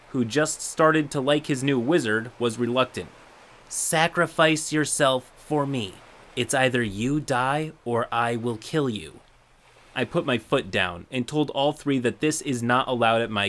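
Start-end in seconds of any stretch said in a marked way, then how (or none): 3.7-9.2 slow creepy calm threat. Retold or imitated. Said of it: "with that calm demeanor".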